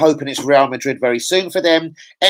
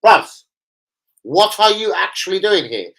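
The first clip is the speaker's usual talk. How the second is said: indignant retort; 5 semitones higher than usual. Retold or imitated. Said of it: "I was like".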